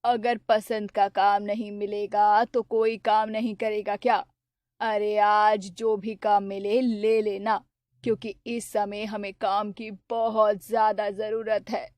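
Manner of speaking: an anxious poor mother urging her son on; mother's voice. Acted. (थोड़ी धीमी, फ़िक्रमंद माँ की आवाज़)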